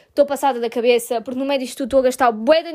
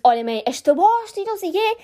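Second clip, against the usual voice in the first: irritated to mum; 4 semitones higher than usual. Retold or imitated. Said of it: "já irritada".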